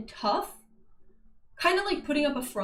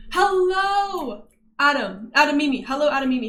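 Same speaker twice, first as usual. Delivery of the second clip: cheery greeting; 2 semitones higher, 5 dB louder than usual. Real, not acted. Greeting a chatter by name.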